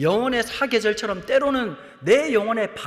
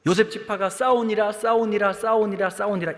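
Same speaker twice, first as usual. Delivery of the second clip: usual speaking voice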